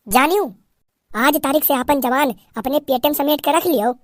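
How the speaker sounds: put-on old aunt scolding in dialect; sharp-tongued aunt putting the bride in her place; threatening village aunt.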